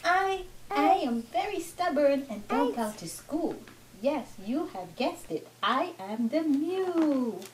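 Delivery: put-on lilting riddle read to a toddler; lightly voiced storybook animal; children's story reading. Mother reads a stubborn animal's riddle, children's story reading.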